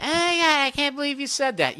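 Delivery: put-on high, scandalized girly voice; mock shocked girl. Voicing the girl friend hearing his blunt confession, high mock outrage.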